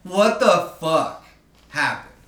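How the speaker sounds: loud high laugh into the words; laughing disbelief. Real, not acted. Telling friend about the twenty dollar bill, laughing in disbelief. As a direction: laugh out loud at the absurd twist.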